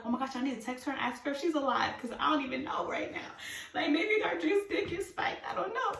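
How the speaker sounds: high worried whine; freaking out. Retold or imitated. Worrying her friend's drink was spiked, freaking out. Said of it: "I'm freaking out".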